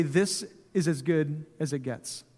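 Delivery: slow, soft, resigned sigh of a line; resigned settling. Retold or imitated. Resigned churchgoer quoted in sermon.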